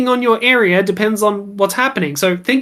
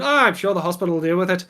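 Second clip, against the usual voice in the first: quick, softer brush-off; blasé; 5 dB quieter, much faster than usual. Acted. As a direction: play it unbothered, tossed away quickly. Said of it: "they're very blasé about everything".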